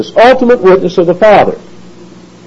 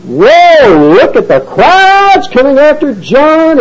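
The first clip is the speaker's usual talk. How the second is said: high, thrilled "whoa" at the crowds; excited crowd; 11 semitones higher, 3 dB louder, slower than usual. Retold or imitated. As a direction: play an onlooker dazzled by the crowds. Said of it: "it's like".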